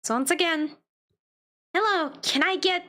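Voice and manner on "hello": "hello" with the L held longer; drawn-out L. Acted. Player greeting someone in the game, "hello" with a long L. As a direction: stretch the L in "hello". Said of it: "the L sound was longer than usual".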